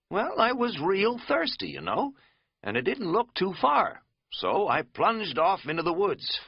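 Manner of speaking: Katz voice. Acted.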